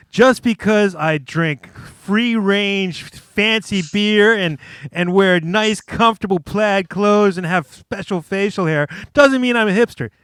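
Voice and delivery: mock defensive protest. Acting out flow chart's defensive answer.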